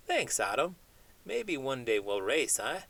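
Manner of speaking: chatty cartoon chimp dreaming big, not far from own voice; lightly voiced chimp. Chimp puppet chats with host.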